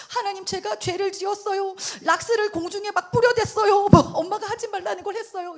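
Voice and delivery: high, pleading mock-child voice; penitent small child. Small child begging God's forgiveness over bleach, hammed-up penitence. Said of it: "네 살이었나 막 다섯 살이었나".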